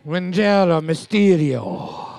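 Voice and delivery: put-on slow, showy Italian accent. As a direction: roll out the name in a mock Italian accent. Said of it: "You did an Italian voice again".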